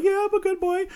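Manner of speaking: imitating a nervous boy answering, high; scared kid. Host mimics the kid answering the vampire, high and timid. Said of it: "And he's like".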